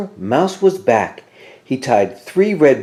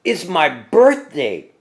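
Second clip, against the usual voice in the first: Mouse voice; 8 semitones higher than usual. A narrator's reading. Mouse speaking as Santa.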